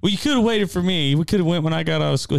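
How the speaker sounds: put-on a kid sulking at dad; whiny son.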